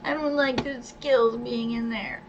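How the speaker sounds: whining about not getting a turn; whiny voice. Real, not acted. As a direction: complain in a whiny voice. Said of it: "'cause whiny voice".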